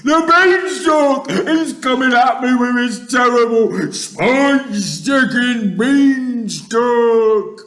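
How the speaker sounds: high, loud, wailing plea; terrified screaming. A narrator's reading. Giant begging Jack and fearing beanstalk, screaming. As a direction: shriek and beg in panic. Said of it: "screamed the flesh lump eater".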